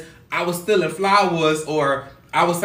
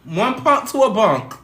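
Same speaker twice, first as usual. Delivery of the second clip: officer's rule; 4 semitones higher than usual. Retold or imitated. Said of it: "That was the saying".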